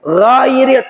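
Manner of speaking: "Ghairil" with a heavy, thick gh; thick gha. Shown as a demonstration. Teacher stressing the heavy gha for the students. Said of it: "tebal gha-nya".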